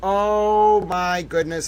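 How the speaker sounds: long slow swooning oh; drawn-out gush. Acted. Host swooning at a towel dog picture, slow gush. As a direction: melt over the cute dog picture.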